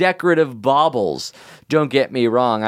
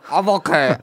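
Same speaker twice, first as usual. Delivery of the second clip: choking while talking; talking through a choke; 6 semitones higher than usual. Real, not acted. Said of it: "Why are you choking now?".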